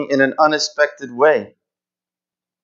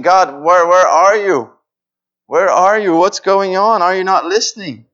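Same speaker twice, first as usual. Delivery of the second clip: high, louder, anguished calling to God; desperate plea; 5 semitones higher, 4 dB louder than usual. Retold or imitated. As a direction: cry out where God is. Voicing a desperate believer.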